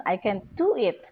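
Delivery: "do" stressed with a falling tune; stress shift demo. Shown as a demonstration. Teacher contrasting meanings for students, stress on "do". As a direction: put the weight on "do". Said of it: "nag-iiba siya ng meaning".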